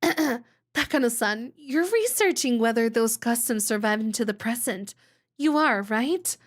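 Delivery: sly schoolgirl asking a pointed question; a hint of a teasing Shion. Voicing Shion character.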